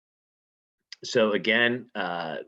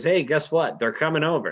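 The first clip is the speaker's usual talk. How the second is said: higher, louder eager messenger; excited servant; 7 semitones higher, 5 dB louder than usual. Retold or imitated. Servant telling Lady Macbeth guests are coming, excited. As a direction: burst in with the news.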